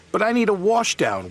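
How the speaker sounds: high, plaintive complaint; wailing. A narrator's reading. Percy pleads for his turn at washing, high wail. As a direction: protest in a high mild wail. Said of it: "wailed Percy".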